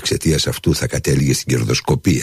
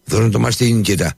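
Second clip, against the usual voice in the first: put-on higher, proud call to the boy; 9 semitones higher than usual. A narrator's reading. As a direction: call out to the son, full of pride. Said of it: "φώναξε ... με φανερό καμάρι". (περήφανο φώναγμα, ψηλότερα)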